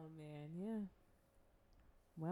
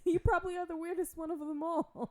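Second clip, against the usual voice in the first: laughing tease; 11 semitones higher, 7 dB louder than usual. Real, not acted. Teasing through laughter.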